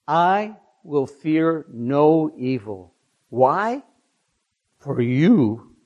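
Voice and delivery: slow, measured psalm recitation with long pauses; unhurried devotional reading; solemn scripture reading. Acted. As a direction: read the psalm reverently, phrase by phrase. Reads Psalm 23 aloud.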